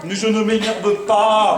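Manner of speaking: drawn-out, exasperated protest; slow, emphatic, irritated insistence; irritated denial. Acted. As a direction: deny being angry while audibly annoyed. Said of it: "Et pourquoi tu t'énerves?".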